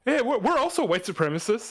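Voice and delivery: hammed-up proud Klansman; mock Klansman. Klansman pleading to Nazis, high and hammy.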